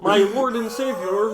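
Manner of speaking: slow puppet frog voice; Kermit the Frog. Acted. Podcaster as puppet professing faith, slow frog impression. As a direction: draw it out as a devout cartoon frog. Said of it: "Kermit the Frog".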